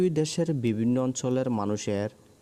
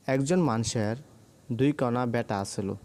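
Rangpur dialect. Shown as a demonstration. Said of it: "Rangpur অঞ্চলের আঞ্চলিক ভাষা হলো".

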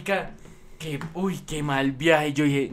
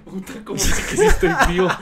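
laughing retelling; 4 semitones higher, 6 dB louder than usual. Retold or imitated. Retells own panicked reply, laughing.

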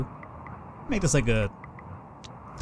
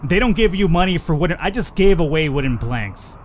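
louder, exasperated disbelief; frustrated outburst; 2 semitones higher, 4 dB louder than usual. Real, not acted. Gamer realizing he gave wood away, exasperated outburst. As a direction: vent the disbelief.

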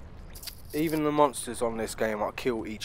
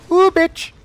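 very high, loud shriek of fright; startled shriek; 16 dB louder than usual. Real, not acted. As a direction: shriek out in panic. Monster jump scare.

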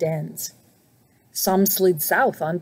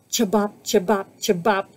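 croaking frog. Acted. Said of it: "croaked Frog".

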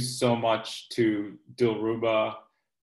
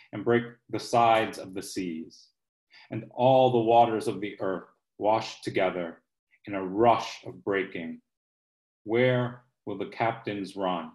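rhythmic poetry reading with pushed stresses; host reads a favorite poem to close the event. Acted. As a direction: lean into each crash and break. Host reads Lucille Clifton poem.

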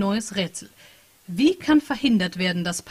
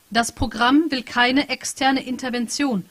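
slow machine reply; 4 semitones higher, 4 dB louder, slower than usual. Acted. Machine text read out.

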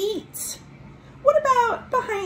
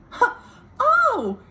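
surprised oh; 5 dB louder than usual. Acted. Surprise at the snail.

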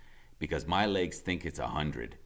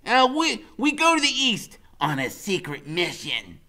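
high, loud laughing then commanding; a boy laughing off a joke, then leading on; Freak laughing; 15 dB louder than usual. A narrator's reading. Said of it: "Freak laughs and says".

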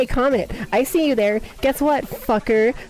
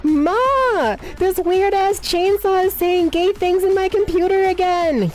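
lightly voiced complaining child; 3 semitones higher than usual. Viewer tattling to Ma about a chainsaw, mock complaint. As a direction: call out to a parent as a mock complaint.

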